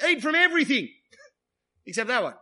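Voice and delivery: high mock-generous snake voice, then a laugh; sly serpent. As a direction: play the snake twisting God's words, amused. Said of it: "what the snake's doing".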